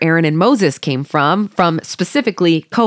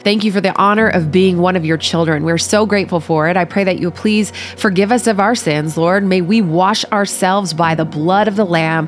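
prayer. Acted. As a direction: pray gently and humbly to God. Leads the opening prayer.

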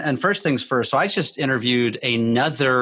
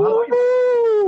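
drawn-out howl, much higher and louder, slow; big sound effect greeting; 5 dB louder, slower than usual. Acted. Host greeting the guest with a sound-effect howl. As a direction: stretch it like a stadium whoop. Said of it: "Woo! What an intro".

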